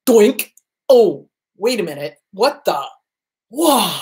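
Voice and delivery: sudden realization; dawning surprise. Retold or imitated. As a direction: catch yourself mid-thought, surprised. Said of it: "they go".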